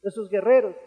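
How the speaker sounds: imitating an anguished, bewildered plea; retold tearful complaint. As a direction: protest to God as a distraught Josué, without real sobbing. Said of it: "Josué estaba llorando, le decía".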